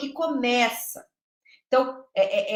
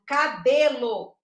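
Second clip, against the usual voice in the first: "cabelo" said louder, broken into ca-be-lo; syllable by syllable; 6 dB louder, much slower than usual. Shown as a demonstration. Teacher showing syllable manipulation, "cabelo" in syllables. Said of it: "manipulação silábica, por exemplo".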